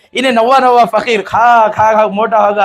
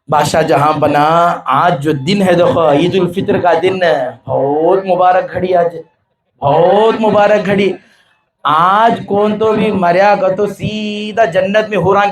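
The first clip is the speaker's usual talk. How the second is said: solemn coaxing. Acted. Master coaxes the king solemnly.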